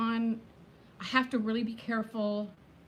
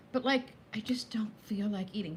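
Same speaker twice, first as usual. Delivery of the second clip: whisper. Real, not acted. Admitting to viewers she has no appetite, whispered. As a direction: whisper it as a confession.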